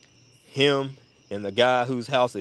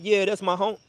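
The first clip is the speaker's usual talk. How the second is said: high mock Blake voice; 10 semitones higher than usual. Blake voiced again, repeated.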